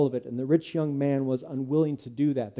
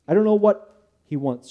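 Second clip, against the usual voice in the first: put-on young girl's answer, higher and louder; timid daughter; 6 semitones higher, 7 dB louder than usual. Daughter answering her angry father, girlish and anxious. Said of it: "she said".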